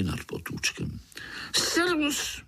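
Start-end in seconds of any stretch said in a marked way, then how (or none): 1.5-2.4 high, ringing call of servus; a stranger hailing from afar; hallooing greeting. A narrator's reading. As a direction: call out a bright hello. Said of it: "zahalekal znovu ten cizinec".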